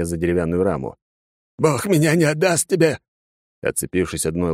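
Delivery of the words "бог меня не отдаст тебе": high frantic cry. Acted. Father clinging to the frame.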